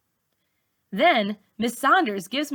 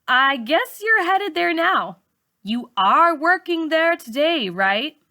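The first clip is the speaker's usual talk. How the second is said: Miss Saunders voiced; 8 semitones higher, 5 dB louder than usual. A narrator's reading. Teacher voiced in narrated story.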